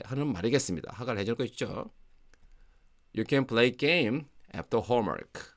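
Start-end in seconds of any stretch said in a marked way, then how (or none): 3.2-5.5 slow demo. Shown as a demonstration.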